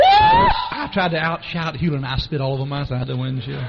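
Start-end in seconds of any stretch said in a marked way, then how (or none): 0.0-2.0 laughing. Real, not acted. Telling shouting contest in car.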